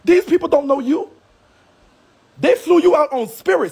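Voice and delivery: berating a rival streamer, furious; angry rant. Real, not acted. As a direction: tear into her, building to a yell. Heated rant at Geisha.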